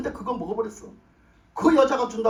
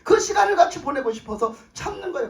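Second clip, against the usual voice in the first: tearful longing; 6 semitones higher than usual. Real, not acted. Preacher moved while describing God.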